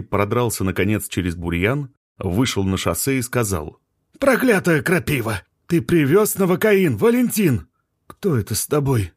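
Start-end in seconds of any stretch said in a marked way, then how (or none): 4.2-9.1 calling out. Acted. Biologist calling out in dark.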